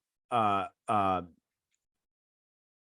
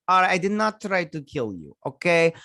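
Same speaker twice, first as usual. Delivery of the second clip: mock indignant denial; 5 semitones higher, 4 dB louder than usual. Acts out Yelena denying an accusation.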